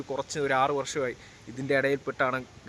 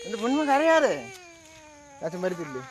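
soothing coax; 7 semitones higher than usual. Real, not acted. Comforting a crying child at parting.

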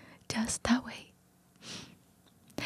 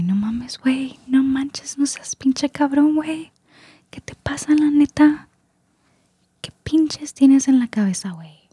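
Mexican accent impression; 7 semitones higher than usual. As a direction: play a mock Mexican street guy telling a friend off. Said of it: "voy a hacer el acento mexicano".

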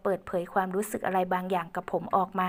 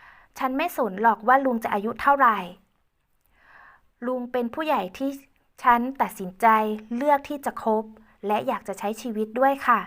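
put-on higher, louder girl voice; determined young woman; 3 semitones higher, 4 dB louder than usual. Ae declaring her choice to Uncle Uan, high firm voice. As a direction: declare it firmly as Ae.

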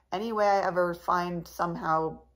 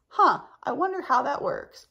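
high, louder wondering aloud; curious musing; 7 semitones higher, 5 dB louder than usual. Acted. Vlogger quoting what goes through her head in the wild, curious. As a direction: think aloud in a higher, puzzled voice.

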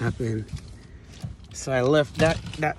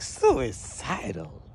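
slow, stretched-out disbelief; acted-out disbelieving question; incredulous echo; much slower than usual. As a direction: drag the word out as if stunned. Incredulous echo of officer's accusation.

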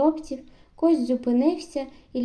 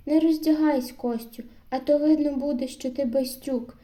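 mocking. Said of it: "насмішкувато сказав Микита".

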